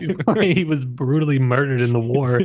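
a hint of a grieving soldier's regret; mock wistful soldier. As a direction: sigh it out like a mourning son, only half in earnest. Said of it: "where you're like".

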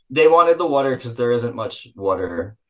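slight Jersey accent slipping out. Real, not acted. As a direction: let a hint of Jersey color the vowels. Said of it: "That's my Jersey accent coming out".

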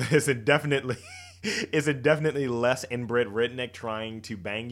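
laughing. Real, not acted. Laughing through description.

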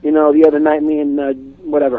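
put-on easy New York accent, reading lines; lightly put-on New York Italian accent. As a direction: play a New York best man's accent. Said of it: "easy accent".

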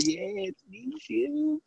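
high, softened mock squeal; high put-on voice. Acted reunion in high voice.

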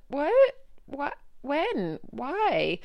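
flung out in disbelief; retold shocked protest. Told to stay till ten.

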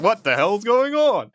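confused. Retold or imitated. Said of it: "He's just like".

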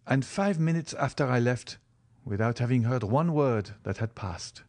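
lightly voiced young man telling his tale; Morrel recounting. Figure recounts a scene in dialogue.

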